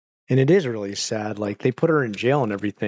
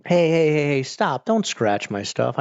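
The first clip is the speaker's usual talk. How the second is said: scolding the pet; 3 semitones higher than usual. Real, not acted. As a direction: snap at the pet to quit it. Scolding pet scratching couch.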